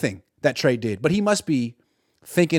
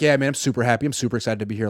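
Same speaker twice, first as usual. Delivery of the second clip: flat, softer claim of being super happy; unexcited fake enthusiasm; 4 semitones lower, 4 dB quieter, faster than usual. Trey telling reporters he's happy, flat and unconvincing. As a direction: say it like you don't mean it, low and soft. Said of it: "never seen someone less super excited".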